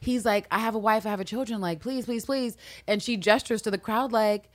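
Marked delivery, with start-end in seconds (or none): 0.5-2.6 mock begging. Husband begging for his life.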